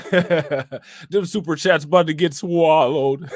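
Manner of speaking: slow, amused, "swallowed" stretched long; mimicked drawn-out "swallowed". Streamer joking about super chats, "swallowed" drawn out, laughing. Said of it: "Why was he saying it like that?".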